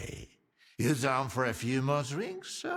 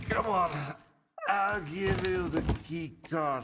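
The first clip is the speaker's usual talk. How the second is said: rousing call; 7 semitones higher than usual. Acted. Urging him to drink.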